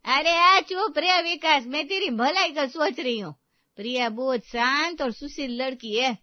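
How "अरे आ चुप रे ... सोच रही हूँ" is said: shouting him down. Acted. Mother loudly telling her son Vikas to shut up.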